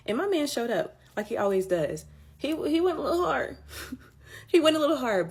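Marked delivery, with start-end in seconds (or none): 2.4-4.0 high and giggly, "went" lifted; amused disbelief, pitched up; amused laugh. Real, not acted. Joking to viewers about God's answer, laughing. 4.5-5.3 high, laughing and louder on "He went a little hard". Real, not acted. Repeating the joke to viewers, laughing harder.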